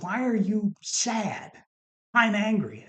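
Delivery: exasperated husband, high and emphatic; retold anger. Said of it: "I am just angry beyond angry".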